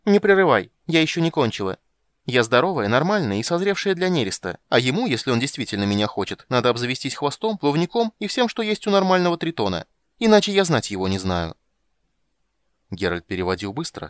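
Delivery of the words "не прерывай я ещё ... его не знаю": much higher, louder aggrieved siren; offended siren. Acted. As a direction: lecture him like a wronged sea maiden. Siren voiced in high register.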